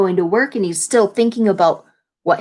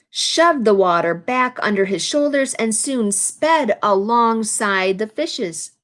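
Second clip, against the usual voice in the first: storybook read-aloud, lively phrasing; picture-book narration; reading to children; slower than usual. A narrator's reading. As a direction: read the page to the class.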